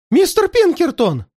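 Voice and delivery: высоко и громко, ликуя; обрадуйся спасителю; радостный возглас. A narrator's reading. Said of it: "радостно воскликнул". (радостно воскликни)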